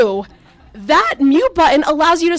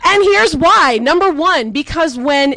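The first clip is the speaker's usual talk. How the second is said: excited build-up; 4 semitones higher, 4 dB louder than usual. Real, not acted. Building to punchline.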